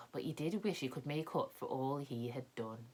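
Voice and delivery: soft whispered ending. A narrator's reading. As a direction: hush it as the story closes. Story closing whisper.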